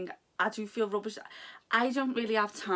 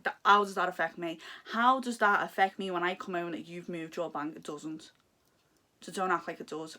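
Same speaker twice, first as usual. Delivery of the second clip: louder, indignant rhetorical questions; exasperated outburst; 4 dB louder than usual. Real, not acted. Frustrated call handler ranting at a customer who threatened her. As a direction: throw the question back at an imagined rude customer. Venting at rude phone customers.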